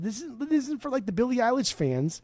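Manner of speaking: high-pitched proclamation at normal volume; mock rallying cry.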